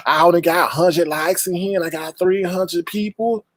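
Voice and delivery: lightly put-on high voice; mocking complaint. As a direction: mimic a host begging for likes. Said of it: "and you be like".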